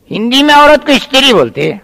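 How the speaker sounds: high mocking question; cheeky echo. Boy repeats the tutor's line as a high cheeky question.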